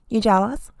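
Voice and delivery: a hint of mock Kardashian accent; Kumtrashian accent. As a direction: lightly imitate a Kardashian accent. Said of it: "is that the Kumtrashian accent?".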